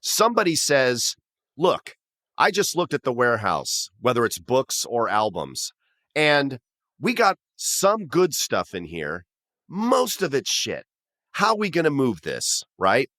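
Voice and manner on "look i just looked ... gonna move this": put-on Brooklyn accent. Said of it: "some kind of Brooklyn accent whenever I'm doing this guy".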